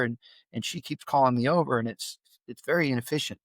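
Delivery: calm, toned-down talk to his son; gently reasoning with a sensitive boy. Retold or imitated. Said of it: "lower my tone".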